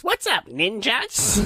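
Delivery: slow, drawn-out cool greeting. Retold or imitated. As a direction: greet them slow and smooth. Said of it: "he gets out of that car and he says".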